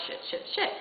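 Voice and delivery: whispered mock-panic cursing; hushed panic. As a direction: curse quickly under your breath, acting out alarm. Retold panic over payment.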